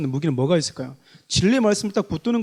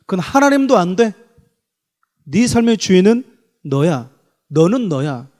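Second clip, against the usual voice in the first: tempter's voice; 5 dB louder than usual. Retold or imitated. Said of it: "이렇게 얘기를 해버려요".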